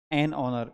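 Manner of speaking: "an" stressed before a silent h in "honor"; "an honor" with no h sound. Shown as a demonstration. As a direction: make "an" stand out and drop the h in "honor". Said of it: "इसमें भी एच silent होता है".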